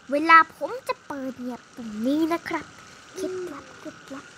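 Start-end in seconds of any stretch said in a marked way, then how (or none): 3.1-4.2 much softer, hushed secret; secret whisper. Pretend. Hero whispering his secret trick. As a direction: share a secret under your breath.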